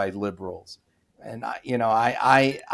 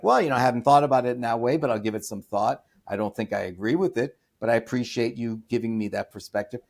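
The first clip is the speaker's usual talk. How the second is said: calm reasonable reply; faster than usual. Pretend. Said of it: "I'll say something like".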